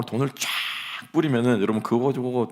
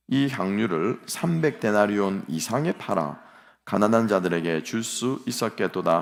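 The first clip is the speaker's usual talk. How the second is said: unison scripture reading; slower than usual. Acted. Congregation reads scripture aloud.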